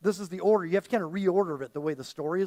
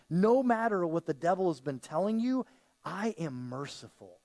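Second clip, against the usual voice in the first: reassuring; 4 semitones lower than usual. Acted. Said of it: "kinda reassure this man".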